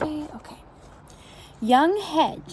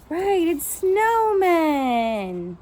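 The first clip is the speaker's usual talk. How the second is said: slow reveal; much slower than usual. Real, not acted. Reveals answer to kids.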